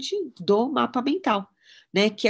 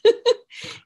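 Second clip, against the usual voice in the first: burst of laughter; 7 dB louder than usual. Real, not acted. Mother laughing at memory.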